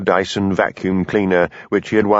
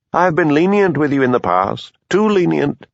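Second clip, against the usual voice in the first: higher, sharper rebuke on too lenient; rising anger; 7 semitones higher than usual. A narrator's reading. Superintendent scolding Hamish, rising anger. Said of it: "in the quiet voice he used".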